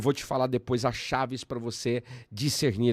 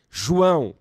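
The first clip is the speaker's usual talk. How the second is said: rising, louder calls of the name, higher; proclaiming loudly; 4 semitones higher, 9 dB louder than usual. Retold or imitated. Repeating the name emphatically.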